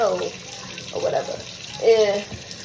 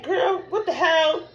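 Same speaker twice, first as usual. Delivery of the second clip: grandma's shock; 5 semitones higher, slower than usual. Retold or imitated. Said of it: "She like".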